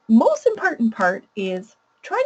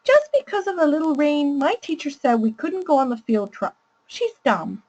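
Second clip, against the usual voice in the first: put-on high child voice; 5 semitones higher than usual. Shown as a demonstration. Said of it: "I'll use a really high voice to read the child's problem".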